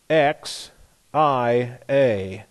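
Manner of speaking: slow, separated letters; deliberate letter-by-letter delivery; spelling out slowly. Real, not acted. Spelling out a Greek word.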